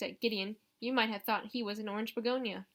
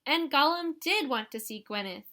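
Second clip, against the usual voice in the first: put-on higher, louder little-girl gloat; triumphant; 5 semitones higher, 7 dB louder than usual. A narrator's reading. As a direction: crow it, proven right. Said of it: "saying triumphantly".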